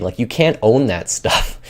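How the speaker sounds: lightly imitated celebrity speech pattern; a hint of a famous actor's slow delivery; Christopher Walken. Arguing nobody owns that stuff, light impersonation. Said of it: "way of speaking or Christopher Walken".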